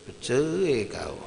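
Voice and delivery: put-on slow, drawn-out drunken declaration; lightly acted drunk, words stretched out; drunken husband. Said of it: "dalam keadaan mabuk dia".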